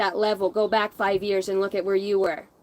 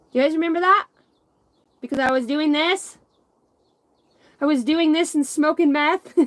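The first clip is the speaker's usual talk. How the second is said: mock self-parody; 7 semitones higher, 5 dB louder than usual. Mocking her old crazy self.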